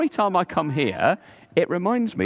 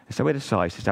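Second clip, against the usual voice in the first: story narration. Acted. Telling children about the pearl diver, storybook narration. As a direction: read it like a bedtime tale for little ones.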